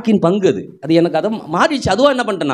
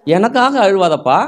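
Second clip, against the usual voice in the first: Jesus' gentle words; 3 semitones higher, slower than usual. Retold or imitated. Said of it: "யாருக்காக அழுவாத?".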